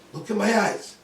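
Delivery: loud, urgent command. Retold or imitated. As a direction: call out to seize her attention. Commanding screaming daughter's attention.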